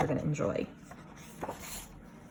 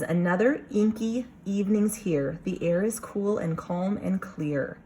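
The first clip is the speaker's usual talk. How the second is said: read aloud; 2 semitones higher than usual. Shown as a demonstration. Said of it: "It says".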